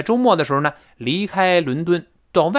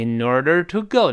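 in order rising toward a falling go; falling stress on go. Shown as a demonstration. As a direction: let go fall from a height. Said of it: "go要重读往下降".

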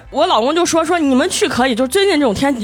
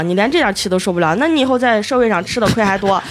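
lightly imitated monotone, a little lower; flat droning lecture; 3 semitones lower than usual. Narrator mimics father-in-law's flat nagging, low monotone. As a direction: drone it out without any rise or fall. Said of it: "生气的时候都是那种平音".

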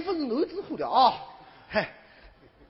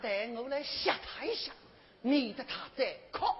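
low, soft scheming aside; stage aside, much quieter; hushed aside; 5 semitones lower, 11 dB quieter than usual. Acted. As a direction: drop the voice to confide a plan. Innkeeper's aside, plotting a scare.

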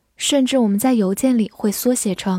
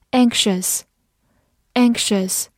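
very slow, careful word read; slow classroom review word; much slower than usual. Shown as a demonstration. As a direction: draw the word out for learners.

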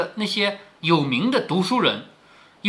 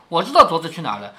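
quick, casual and unbothered; flat, offhand; 4 semitones lower, faster than usual. Shown as a demonstration. Wang Xifeng calmly tells the group, matter-of-fact. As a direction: toss it off as if it is nothing. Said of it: "王熙凤很平淡地说".

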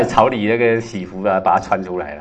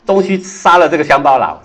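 a touch of royal fury, higher and louder; angry emperor; 6 semitones higher, 7 dB louder than usual. Acted. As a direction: fume at the stubborn minister. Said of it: "怒气冲冲啊".

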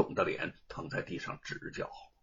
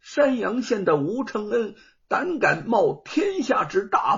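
self-righteous accusation; 5 semitones higher, 4 dB louder than usual. Acted. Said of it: "振振有词儿地说".

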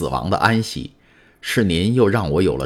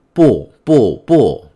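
high, much louder desperate shout; 6 semitones higher, 8 dB louder, much slower than usual. A narrator's reading. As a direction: cry it out, pleading against suspicion. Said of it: "唐泰斯喊道". (拼命高声喊叫)

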